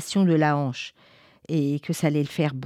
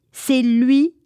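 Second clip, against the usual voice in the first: c'est lui burst out higher and louder; excited; 7 semitones higher, 7 dB louder than usual. A narrator's reading. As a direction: repeat c'est lui with a boy's eager jump. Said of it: "c'est lui repeated".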